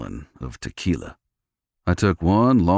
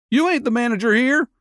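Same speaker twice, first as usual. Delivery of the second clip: high-pitched gruff cowboy. A narrator's reading. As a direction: growl it like a bar tough. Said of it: "the gruff voice said".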